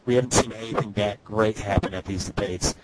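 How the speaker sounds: metallic, robotic sound from the mic. Real, not acted. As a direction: mouth too close to the mic. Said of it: "you sound robotic".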